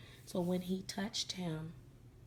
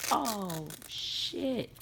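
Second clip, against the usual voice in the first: mock shock, pitched up; retold shock; 3 semitones higher, 4 dB louder than usual. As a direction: act out his stunned realization. Man learns it is a doll.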